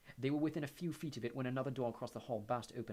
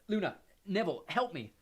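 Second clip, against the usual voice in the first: calling out; 7 semitones higher, 8 dB louder than usual. A narrator's reading. Harry calling for help.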